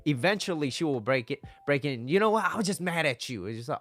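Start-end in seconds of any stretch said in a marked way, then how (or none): 2.1-3.4 put-on girlfriend admitting anger. Girlfriend voiced finally admitting anger.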